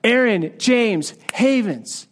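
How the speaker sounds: mildly stern, drawn-out name call; reproving. Retold or imitated. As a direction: scold lightly by name. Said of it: "almost a voice of disapproval or scorn or reproof".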